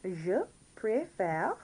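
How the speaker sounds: slow model for repeating; careful, drawn-out French drill; all together now. Shown as a demonstration. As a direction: lead learners slowly through each word. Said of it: "all together now".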